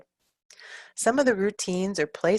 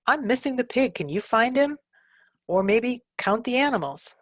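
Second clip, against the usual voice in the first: bright high teacher voice; 6 semitones higher than usual. Shown as a demonstration. Modeling prompts to a child.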